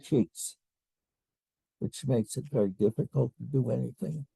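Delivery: dry sticky mouth. Real, not acted. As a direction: talk through a parched mouth. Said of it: "My mouth is so dry".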